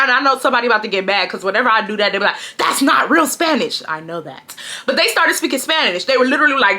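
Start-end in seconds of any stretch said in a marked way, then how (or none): 2.6-3.8 mock commenter voice. Commenters mocking her.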